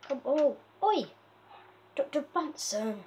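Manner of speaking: sharp loud call after the escaping villager. Real, not acted. Calling to the runaway villager, loud and sharp. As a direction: raise the voice to stop him wandering off.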